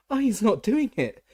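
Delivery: very high, loud, tearful elf squeal; squealing house-elf. A narrator's reading. Frightened house-elf squeals at the official, very high and loud. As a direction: squeal your innocence in terror. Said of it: "she squealed".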